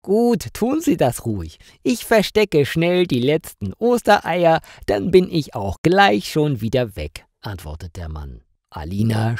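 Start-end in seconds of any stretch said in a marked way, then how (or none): 0.0-7.2 higher-pitched character voice, unbothered; odd stranger's high, casual reply; costumed stranger. A narrator's reading. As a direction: brush off the threat, voice lifted. Costumed stranger brushes off the threat.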